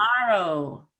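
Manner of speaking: "Tomorrow" with a full, rounded, falling final oh; rounded lips. Shown as a demonstration. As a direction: move the lips through Tomorrow. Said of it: "move those lips".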